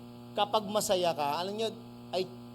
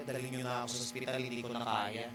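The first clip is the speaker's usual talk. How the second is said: pleading; 9 semitones lower, 8 dB quieter, much faster than usual. Retold or imitated. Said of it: "nagpasugod ako ng ospital".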